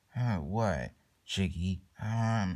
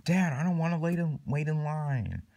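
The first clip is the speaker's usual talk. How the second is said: put-on complaining child; 4 semitones higher than usual. Kid refusing to wait in line, whiny. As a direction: whine it at Dad in a raised pitch.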